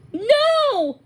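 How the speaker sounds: sharp high shocked cry. Acted. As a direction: blurt it out in shock. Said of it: "sounding shocked".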